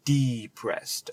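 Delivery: depressed as DEE-pressed, slow prefix; stress on first syllable. Shown as a demonstration. Linking own feeling to the term, depressed with stretched DEE. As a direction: draw out the "de" in depressed. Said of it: "notice the term depress".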